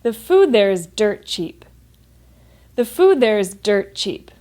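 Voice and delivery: measured model sentence, clear er in "dirt", dropping on "cheap"; falling statement intonation. Shown as a demonstration. Teacher leading say-with-me practice, falling statement intonation. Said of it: "focusing on the intonation".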